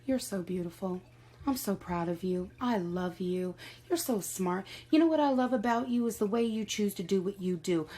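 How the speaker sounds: tender affirmations to yourself, building in warmth; loving self-talk. Pretend. Talking to herself in the mirror with gentle love. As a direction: speak lovingly to your own reflection. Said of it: "reprogramming in the mirror, talking about".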